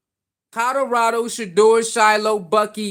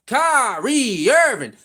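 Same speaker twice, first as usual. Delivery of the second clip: drawn-out mock call; slower than usual. Imitating Stephen A calling Kyrie.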